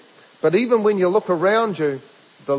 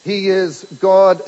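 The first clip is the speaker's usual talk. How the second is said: slow and louder, every word landed; emphatic declaration; 5 dB louder, slower than usual. Real, not acted. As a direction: hammer home the truth.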